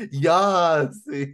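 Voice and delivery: Yassi called out brightly with a broad yah; mock greeting Yassi. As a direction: greet them with a loud Yassi. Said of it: "been like".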